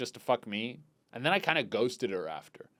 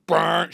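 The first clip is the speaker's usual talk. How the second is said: imitated light switching on; 3 semitones higher, 9 dB louder than usual. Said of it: "turns on the overhead light".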